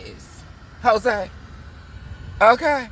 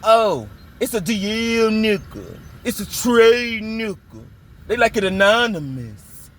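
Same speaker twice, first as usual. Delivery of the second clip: ex's excuse. Retold or imitated. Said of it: "He said".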